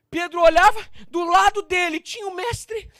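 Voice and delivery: high, loud, urgent telling; heated preaching narration. Real, not acted. Preacher telling what Peter saw, urgent and heated.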